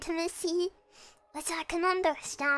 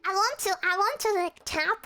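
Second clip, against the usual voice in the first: excited; 5 semitones higher, 3 dB louder than usual. Real, not acted. Gushing about favorite VTuber.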